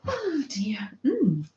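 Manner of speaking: soft unvoiced whisper. Real, not acted. Whispering a little aside to her viewers. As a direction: breathe it under your voice.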